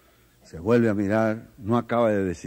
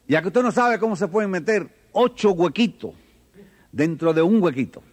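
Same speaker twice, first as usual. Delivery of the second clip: put-on child; 8 semitones higher than usual. Child challenges the teacher.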